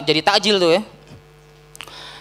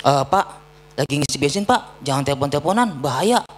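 polite warning; 5 semitones lower than usual. Retold or imitated. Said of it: "berusaha untuk mengingatkan".

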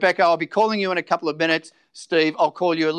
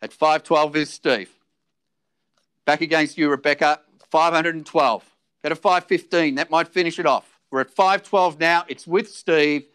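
auctioneer calling. Acted.

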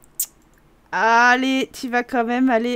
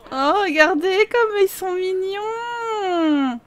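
tender; 5 semitones higher, much slower than usual. Real, not acted. Moved by the couple.

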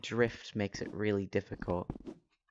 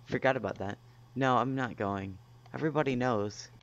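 robot voice. Acted. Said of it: "That's intentional".

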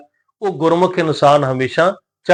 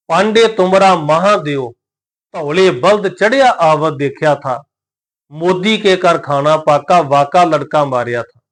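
slow, measured recitation of sacred verse; scripture recitation. Shown as a demonstration. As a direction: recite each word drawn out, with pauses.

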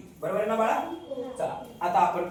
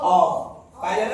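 laughing; 5 dB louder, much slower than usual. Real, not acted. Both laugh at shouted word.

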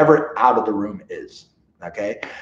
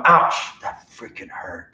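stern ouch; 5 semitones lower, slower than usual. Shown as a demonstration. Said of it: "we want him to know".

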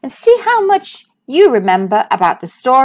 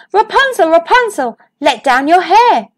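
a higher call to a tower window that settles as it goes; 5 semitones higher than usual. Acted. The prince calling up to Rapunzel's window, a high call. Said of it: "He called up to the window".

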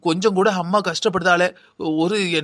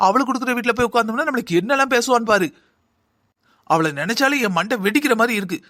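bitter rant. Acted. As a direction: vent her anger at the absent daughter. Mother rants about elder daughter. (கசப்பான கோபப் பேச்சு)

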